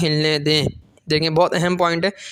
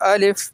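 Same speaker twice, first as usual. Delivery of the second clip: "الف" short, said in a single beat; brief model reading of "الف"; one-count length; 2 semitones higher, much slower than usual. Shown as a demonstration. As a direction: say "الف" crisply without stretching it. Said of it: "جتنی دیر میں ایک الف".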